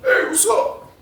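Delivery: high, soft greeting; high quiet greeting; mimicking Jeff. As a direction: call out softly along the fence. Jeff greeting dudes at fence.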